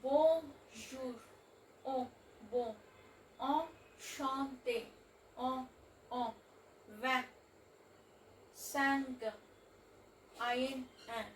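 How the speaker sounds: nasal vowels shown in Bonjour, bon, vingt, cinq and un; French nasal sounds. Shown as a demonstration. Teacher giving examples of French nasal vowels. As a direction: push the vowels through the nose the French way.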